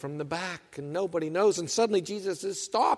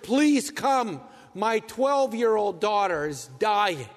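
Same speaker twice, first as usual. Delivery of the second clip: pleading father; 3 semitones higher, slower than usual. Retold or imitated. Father begs Jesus for his daughter.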